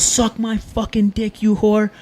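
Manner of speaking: slow, high-pitched mock fury; hammed-up cussing, pitched high and stretched; retold flip-out. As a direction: act out a friend losing it, drawing the insult out. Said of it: "He flips the fuck out".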